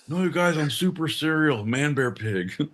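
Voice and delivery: lightly mimicked earnest plea, slowing at the end; Al Gore. Joking as Al Gore pleading to you guys, lightly mimicked. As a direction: start high, then drag out MAN BEAR PIG. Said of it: "Al Gore would approve".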